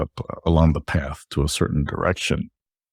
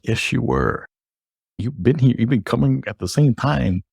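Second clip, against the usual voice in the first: retold insistence, higher pitched; insistent contradiction; 6 semitones higher than usual. Drive-thru worker contradicting his regular customer, insistent. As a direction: push back in a higher voice, as the worker. Clerk insists he was there.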